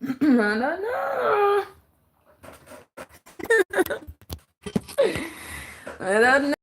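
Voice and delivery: quiet breaking laugh, slow and soft; laughing tearfully. Real, not acted. Half laughing to her viewers about the neighbours. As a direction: laugh through it, half crying. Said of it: "I'm laughing 'cause it's like".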